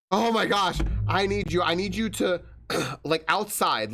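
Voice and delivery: annoying coworker. Retold or imitated. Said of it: "by the way, goes".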